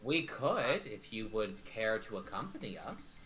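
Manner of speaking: measured, in-character negotiator; courteous adventurer. Acted. Adventurer offering to hunt down Zikron, courteous.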